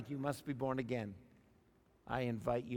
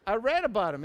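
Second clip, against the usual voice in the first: ordinary delivery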